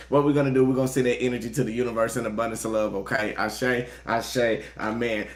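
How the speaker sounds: quick spoken prayer to spirit guides. Acted. Tarot reader opening the reading with prayer, quick prayer voice. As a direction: pray over the viewers.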